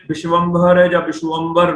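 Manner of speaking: ਵਿਸ਼ਵੰਭਰ and ਵਿਸ਼ਵੰਬਰ with sh and v sounds; wrong pronunciation. Shown as a demonstration. Teacher rejecting a misreading, ਵਿਸ਼ਵੰਭਰ said vish-vam-bhar. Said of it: "ਨਹੀਂ ਅਸੀਂ ਪੜ੍ਹ ਸਕਦੇ".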